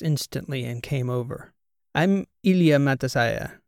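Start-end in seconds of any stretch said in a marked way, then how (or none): 2.0-3.6 put-on light Russian accent, introducing himself; a lightly voiced Russian accent. Student introducing himself to the podcast hosts, light Russian accent. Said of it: "in what seemed to them to be a Russian accent".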